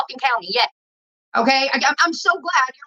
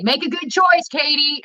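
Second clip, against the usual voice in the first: raised, higher mock call across the garage; mock cop call; 4 semitones higher, slower than usual. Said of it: "then I hear him say".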